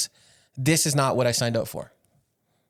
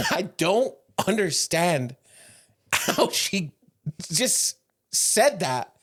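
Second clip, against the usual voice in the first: slow, high, laughing disbelief; 4 semitones higher, much slower than usual. Real, not acted. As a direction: talk through helpless laughter. Cracking up over the story.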